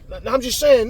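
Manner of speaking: imitated high, loud backpedalling; defensive protest. Beaten partner making excuses to his friend, high defensive protest.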